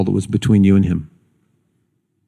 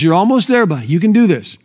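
higher-pitched, lightly acted cheering-on; encouraging father; 6 semitones higher, faster than usual. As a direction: coach a struggling kid along. Father cheering on struggling son.

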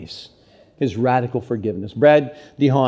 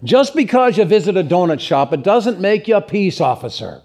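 pitched-up quoting voice; Roy; 7 semitones higher, 3 dB louder than usual. Retold or imitated. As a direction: quote him in a higher put-on voice. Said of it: "he put it like this".

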